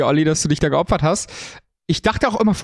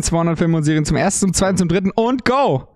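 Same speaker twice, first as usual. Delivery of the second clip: auctioneer. Pretend. Going once, twice, thrice auction call.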